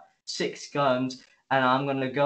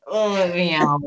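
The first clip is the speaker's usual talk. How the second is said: higher and much louder "Oh, yeah"; mock gleeful cheer; 7 semitones higher, 9 dB louder than usual. Reviewer voicing an Imperial pilot about to crash, gleeful whoop. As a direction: crow it like a gleeful madman.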